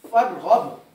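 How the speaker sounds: फरगब said slowly and clearly, ending on a stopped b; careful demo word. Shown as a demonstration. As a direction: pronounce फरगब clearly, stop on the final b. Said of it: "ये लफ्ज है".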